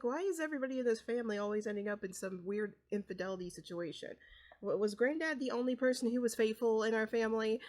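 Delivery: mildly taken aback disbelief; a son half-shocked by his dad; appalled. Acted. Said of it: "taken back and appalled".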